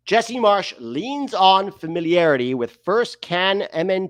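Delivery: exaggerated article read; put-on reading voice. Host reading a roster article aloud, hammed-up delivery. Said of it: "why I'm talking like this".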